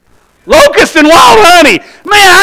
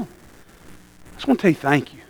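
tearful thanks; 8 semitones lower, 8 dB quieter than usual. Retold or imitated. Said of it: "I started weeping".

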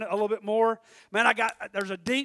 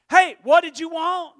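acted eager question; 5 semitones higher, 7 dB louder than usual. Acts Samuel asking Eli.

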